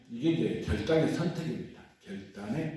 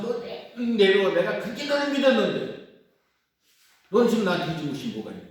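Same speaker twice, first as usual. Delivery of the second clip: higher and louder, angry yelling at the cross; cursing shout; 5 semitones higher, 4 dB louder than usual. Retold or imitated. A disabled man yelling at the crucifix, angry shout. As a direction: hurl the words up at Jesus like an accusation. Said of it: "욕하면서".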